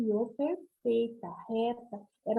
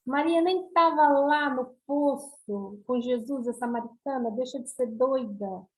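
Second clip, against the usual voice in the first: incredulous objection. Retold or imitated. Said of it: "Aí vocês vão me perguntar".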